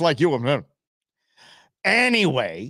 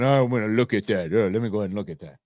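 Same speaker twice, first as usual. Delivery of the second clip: old man mock voice; 4 semitones lower, faster than usual.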